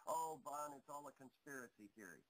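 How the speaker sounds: mildly mocking imitation of a skeptic; dismissive doubter. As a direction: wave it off like a doubter, fading away.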